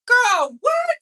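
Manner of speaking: what shoots up high, near a shout; shocked what. Real, not acted. Reacting to the viewers about the quote, stunned shriek. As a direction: blurt it out in disbelief.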